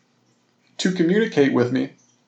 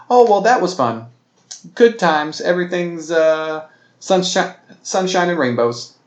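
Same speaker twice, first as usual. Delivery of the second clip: higher, louder sarcastic cheerfulness; mock breezy cheer; 5 semitones higher, 3 dB louder than usual. Gamer mocking fake cheer after losing the treasure, high and bright. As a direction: pretend a big loss doesn't matter. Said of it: "we're not just gonna go".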